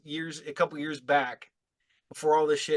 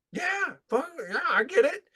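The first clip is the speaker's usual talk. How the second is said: lightly acted, high-pitched agreeing; emphatic agreement; 10 semitones higher than usual. Gym regular replying to a wrestler's thanks, emphatically agreeing. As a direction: jump up high in mock agreement.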